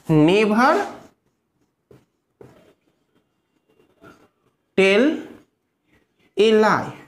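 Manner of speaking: each word alone with long pauses between. Shown as a demonstration. Teacher dictating the sentence to pupils, word by word. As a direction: dictate one word at a time. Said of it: "Never tell a lie means".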